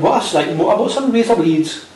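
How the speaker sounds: attempted Geordie, lightly put on; Geordie accent. Shown as a demonstration. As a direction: have a rough go at Geordie. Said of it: "I can do a Geordie accent".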